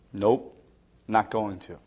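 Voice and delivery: low, soft, immovable no; stubborn refusal. Retold or imitated. Stubborn person refusing God.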